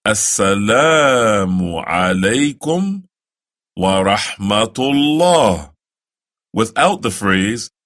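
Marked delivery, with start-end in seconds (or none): 0.0-5.7 slow, careful Arabic greeting; the closing salaam, slow; slow recitation. Shown as a demonstration. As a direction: recite it slowly for the learner. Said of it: "they will say".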